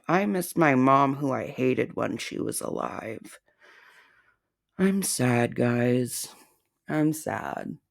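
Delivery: soft, whiny mock sad voice of the target; mock sad impression. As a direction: pout it out as her fake sadness. Impersonating target's fake sadness.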